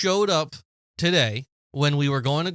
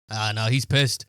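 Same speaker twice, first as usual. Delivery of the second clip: knowing aside; 6 semitones lower than usual. Retold or imitated. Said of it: "and I can go".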